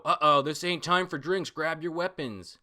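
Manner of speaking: high frightened henchman call; panicky mooks. Retold or imitated. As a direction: yelp it like a scared henchman. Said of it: "a bunch of the mooks go".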